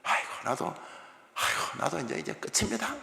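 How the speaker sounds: sulky hushed death wish; mock despair. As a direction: sigh it out like a sulking prophet. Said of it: "비아냥하는 이야기입니다".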